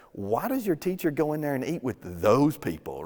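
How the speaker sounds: a mildly disdainful religious critic asking why; mock-indignant Pharisee, understated; snooty question. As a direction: sniff at the sinners, lightly. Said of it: "They start asking Jesus' disciples pretty much this".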